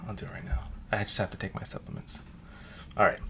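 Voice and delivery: chewing ice while talking; ice in mouth. Real, not acted. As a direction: talk around crunching ice. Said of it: "I got lost in that slurp".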